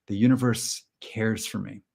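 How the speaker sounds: slow, spaced-out mantra voice; measured meditation-leader delivery; mock affirmation. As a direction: recite it calmly, pausing midway. Leads a mock mantra exercise.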